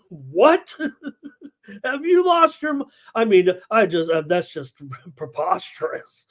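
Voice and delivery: incredulous, breaking into laughter; can barely get it out for laughing; laughing disbelief. Real, not acted. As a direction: scoff and laugh at an absurd idea. Incredulous at absurd trade rumour, laughing.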